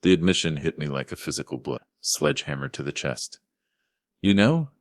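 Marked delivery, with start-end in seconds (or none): 4.2-4.7 high, loud shocked question; shocked, voice rising; rising disbelief. Acted. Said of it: "my voice rising".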